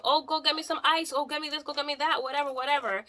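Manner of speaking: high, lazy imitation of her ordering the kids; lightly voiced demanding mother; mock bossy mom. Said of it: "she's, like, telling them".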